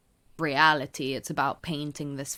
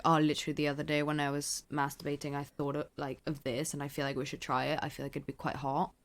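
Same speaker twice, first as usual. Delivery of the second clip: casual suggestion; 5 dB quieter than usual. Pretend. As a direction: float the idea casually, dropping softer as you go. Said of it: "kind of just say it casually".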